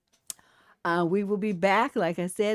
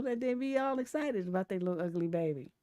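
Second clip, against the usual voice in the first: ordinary delivery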